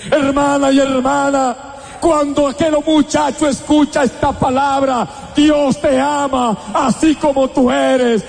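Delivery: ringing sermon cadence; fervent preaching. Acted. Preacher addressing a sister in the pews, fervent. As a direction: proclaim it to the sister.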